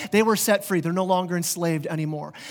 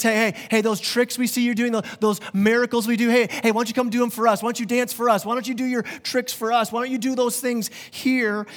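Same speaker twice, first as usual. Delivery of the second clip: mocking hometown crowd, pitched higher; lightly voiced hecklers daring him to perform; a hint of jeering townsfolk; taunting crowd; 3 semitones higher than usual.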